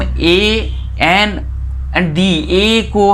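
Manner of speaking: ए held out very long and high; ए drawn out slowly on a high pitch; slow listing. Shown as a demonstration. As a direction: stretch out ए as a teacher lists it. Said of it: "यहाँ पर एक tips है".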